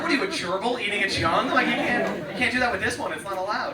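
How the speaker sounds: loud high outraged scolding; mock scolding. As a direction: scold her like she's an animal. Scolding sister for eating egg.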